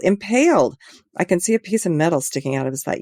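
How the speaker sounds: shocked. Acted. Shocked caller on phone.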